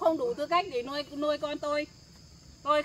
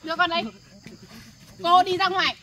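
angry order; 6 dB louder than usual. Acted. Mother orders them out.

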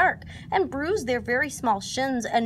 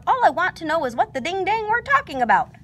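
higher, louder grumbly Gopher; 8 semitones higher, 4 dB louder than usual. A narrator's reading. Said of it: "whistled Gopher".

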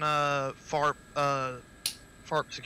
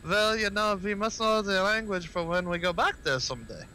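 lightly imitated German accent; 5 semitones higher than usual. Quoting German gamers to the group, light mock German accent. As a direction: retell it with a touch of German accent. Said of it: "the German dudes was like".

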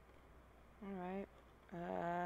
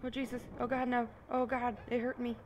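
frightened; 3 semitones higher, 3 dB louder than usual. Real, not acted. Hurt by the monster.

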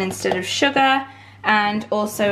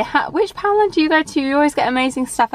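imitating viewers; 4 semitones higher, faster than usual. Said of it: "some of you guys say".

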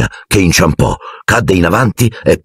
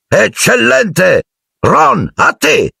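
high, stretched-out cheer, then a call; excited praise; 13 semitones higher, much slower than usual. A narrator's reading. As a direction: praise high, then send the pupil forward. Teacher calls on next pupil. (lode entusiasta, voce acuta)

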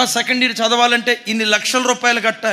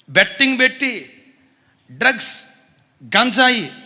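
louder, hammered home; loud emphatic repeat; 5 dB louder than usual. Real, not acted. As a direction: repeat it loud, driving the point. Betting repeated, quiet then loud.

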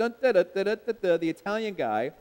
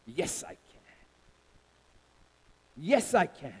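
hushed, much lower, fading to a whisper then rising back; quiet resolve; 4 semitones lower, 8 dB quieter than usual. Acted. Jesus in the garden, hushed whispered resolve. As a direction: breathe it almost inaudibly, then find the voice. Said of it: "he finally said".

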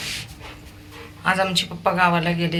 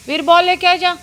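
excited calling; 10 semitones higher, 5 dB louder than usual. Real, not acted. Urging dog in Hindi.

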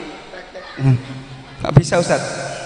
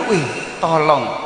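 gentle asking; 3 semitones lower, slower than usual. Shown as a demonstration. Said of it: "Yang pertama bener".

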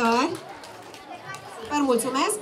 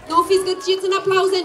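higher, louder playful urging; calling out; 6 semitones higher, 4 dB louder than usual. Real, not acted. Host teasing the audience to clap harder, loud and playful.

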